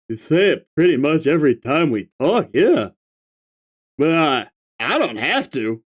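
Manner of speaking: stoner troll. Acted. Holds stoner figure.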